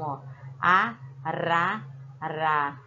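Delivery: a, ra, ra with a light flapped r; tapped R. Shown as a demonstration. Teacher sounding out the weak R for children. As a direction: tap the r lightly. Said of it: "Olha como o som saiu tremido".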